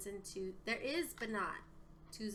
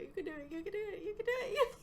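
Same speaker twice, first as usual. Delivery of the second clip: building excitement; 10 semitones higher, faster than usual. Real, not acted. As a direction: build from hope to squeal. Pep talk rising toward finish.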